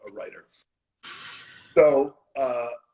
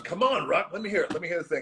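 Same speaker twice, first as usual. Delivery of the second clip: imitating Vince; 5 semitones higher, much faster than usual. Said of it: "so Vince was".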